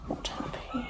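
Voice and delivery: high squeaky whine of displeasure; tiny high-pitched grumble; squeaky mock sulk. Real, not acted.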